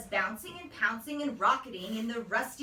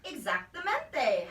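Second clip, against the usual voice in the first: drawn-out louder howl of a word, slow; 4 semitones higher, 5 dB louder, slower than usual. A narrator's reading. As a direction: howl it out together like doggies. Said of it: "howled the doggies".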